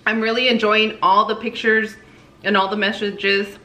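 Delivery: talking while chewing; words round a mouthful; cheeks stuffed full. Real, not acted. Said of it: "my mouth is so full".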